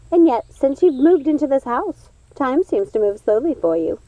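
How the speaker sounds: put-on a witch teasing her old friend; odd sister voice. Odd sister Lucinda speaks.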